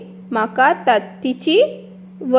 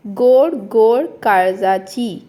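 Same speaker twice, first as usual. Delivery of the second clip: recited line; slower than usual. Shown as a demonstration. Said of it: "हांव पयलीं ताचें वाचन करतलें".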